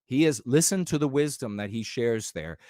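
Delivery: low, dopey awestruck fan voice; mock admirer. Imitating fans fawning over a weak old guru, low and dopey. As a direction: ham up a fawning follower. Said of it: "you all would be like".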